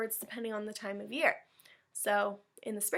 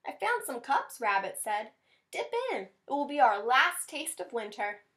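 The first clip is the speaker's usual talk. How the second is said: friendly Rabbit; 3 semitones higher, 3 dB louder than usual. Acted. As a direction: offer the cups kindly. Rabbit offers cups.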